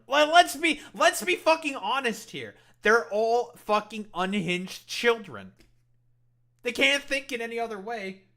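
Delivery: loud, pitch climbing, half-yelling; exasperated. Real, not acted. Streamer answering iDubbbz, loud exasperated outburst. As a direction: blow up in disbelief.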